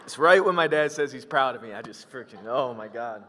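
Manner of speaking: fighting back tears while telling the audience what the video does to him; choked up. Real, not acted. Speaker to audience, moved almost to tears, halting. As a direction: voice catching with real emotion, breaking off mid-sentence. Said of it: "I'm a little emotional right now".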